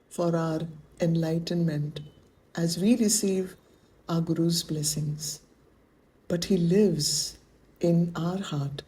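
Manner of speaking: measured meditation guide with long pauses; guided meditation. Acted. Spiritual teacher centering students in their hearts, guided meditation. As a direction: guide them inward, pausing between phrases.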